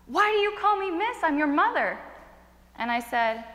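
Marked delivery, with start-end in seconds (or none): 0.1-2.0 higher-pitched hurt plea, lightly tearful; a touch of tears, pitched up at first; tearful mother. Retold or imitated. Mother to the son who called her miss, mildly tearful. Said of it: "with tears in her eyes".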